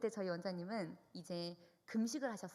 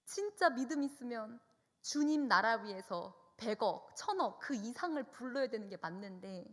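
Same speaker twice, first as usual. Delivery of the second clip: louder, embarrassed confession to God; retold plea, mildly mortified; ashamed prayer; 3 semitones higher, 5 dB louder than usual. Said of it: "너무 창피하고 부끄러워서".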